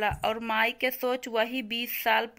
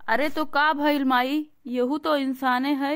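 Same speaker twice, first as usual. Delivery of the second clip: raised, louder and higher pleading objection; loud protest; 3 semitones higher, 5 dB louder than usual. Acted. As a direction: push back at her, voice up. Son defends servants against mother.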